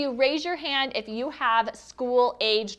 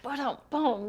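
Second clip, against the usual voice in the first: vocal rimshot after a joke; imitated drum sting; 4 dB quieter than usual. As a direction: mimic a comedy drum hit. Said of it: "I need my drum set".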